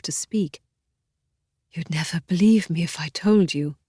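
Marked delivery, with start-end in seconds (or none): 1.7-3.8 rasping. A narrator's reading. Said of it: "Caroline rasped".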